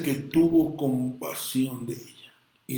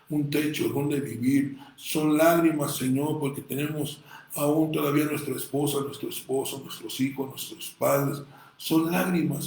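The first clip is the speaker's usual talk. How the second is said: preaching a prayer aloud to God; sermon-style prayer of thanks; fervent prayer. Acted. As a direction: pray it out with rising fervour. Pastor voices a tearful prayer.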